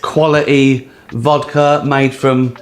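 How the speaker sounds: slow, deliberate sponsor pitch; slow advert read. Acted. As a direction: pitch the vodka slowly to camera. Improvised vodka advert.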